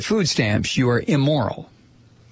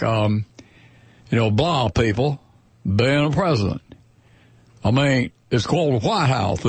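mock McConnell. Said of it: "what Mitch McConnell said".

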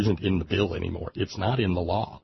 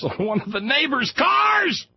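exclaiming; slower than usual. Real, not acted. Punchline about neighbor's bumper sticker.

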